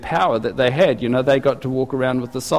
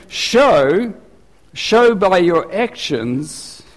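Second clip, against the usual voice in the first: high "Show", then slow "show by your actions"; emphatic command; 4 semitones higher, much slower than usual. Retold or imitated. Preacher voicing John urging the people, slow and pressing. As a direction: plead it, stretching "show". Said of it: "he's saying".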